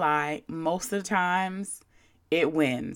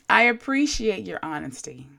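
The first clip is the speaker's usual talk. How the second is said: mock polite reply; 2 semitones higher than usual. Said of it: "So I politely responded with".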